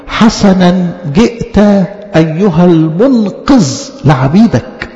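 slow, drawn-out liturgical quote; prayer recitation. Acted. Preacher quoting the Holy Week prayer, drawn-out recitation. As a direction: stretch out each word of the prayer.

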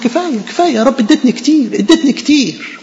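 a soul weeping with joy before God; mock tearful thanks. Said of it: "وبتعيط".

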